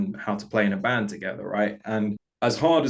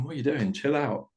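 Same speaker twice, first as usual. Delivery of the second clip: laughing soul; 4 semitones higher than usual. Retold or imitated. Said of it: "the soul's just kind of laughing at you and just going".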